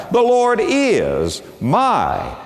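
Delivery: very slow, high "The Lord is my"; slow and drawn out. Shown as a demonstration. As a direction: stretch each word, rising up. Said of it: "talk a long time about that little word".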